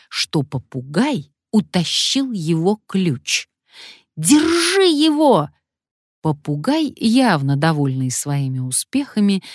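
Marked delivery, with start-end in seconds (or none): 4.2-5.5 high, loud, slow yell; man yelling at the fleeing parrot; shout. Acted. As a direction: yell to catch the thief. Man yells after thief parrot.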